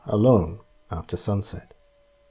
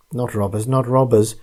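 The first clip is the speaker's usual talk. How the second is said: gasping. Acted. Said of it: "gasped the terrified man".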